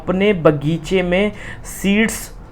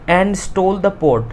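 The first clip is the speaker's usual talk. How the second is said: slow, word-by-word reading; slow reading aloud; 2 semitones higher, much slower than usual. Shown as a demonstration. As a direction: dictate it to the class. Teacher reads textbook line. (धीरे-धीरे पढ़ना)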